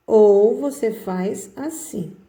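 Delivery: slow, with a falling close; slow demo. Shown as a demonstration. Teacher slowly showing the second way to write the capital. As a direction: draw it out, landing the end.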